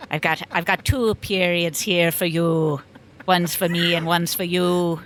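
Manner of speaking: lightly put-on Cockney English teacher; a rough attempt at Cockney; Cockney accent. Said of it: "she had a Cockney accent".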